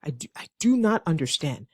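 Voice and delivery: understated rude, angry refusal; acted annoyance, held in check; mildly frustrated. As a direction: state it firmly, with a touch of frustration. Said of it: "if you're extremely frustrated".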